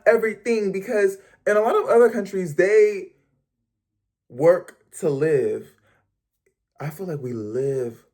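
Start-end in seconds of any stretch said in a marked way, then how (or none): none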